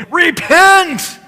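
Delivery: high, loud pulpit shout; screaming preacher. Retold or imitated. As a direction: scream it at the congregation like a hardline Baptist preacher. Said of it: "screaming at you going".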